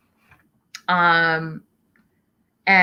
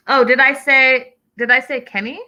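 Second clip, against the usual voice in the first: surprised; 6 semitones higher, 5 dB louder than usual. Real, not acted. Host catches her own slip.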